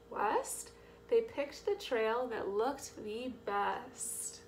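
rhythmic, punched picture-book narration; reading to children. A narrator's reading. Reader telling children of the drive, bouncy story read. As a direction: lean on the rhyme and the repeated words.

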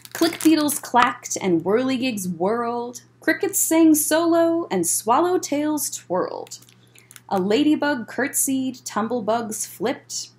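lively storybook read-aloud; bouncy rhyming picture-book narration; reading to children. A narrator's reading. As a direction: read it like story time for kids.

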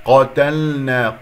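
قتلنا slow, thick q and clear l before n; heavy qaf. Shown as a demonstration. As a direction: recite قتلنا with the lam fully sounded. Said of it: "قاف مفخم مرتبة ثانية".

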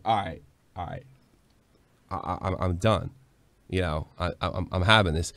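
low, soft and tired, giving up; low resigned mumble, wanting out; resigned backing down. Retold or imitated. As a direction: mutter it like you're done with the fight. Backing down from bar argument.

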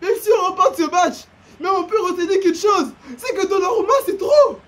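amused gamer rant; laughing exasperation. Real, not acted. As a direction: laugh while complaining to viewers. Laughing recap to viewers.

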